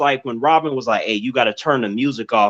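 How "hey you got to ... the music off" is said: ordinary delivery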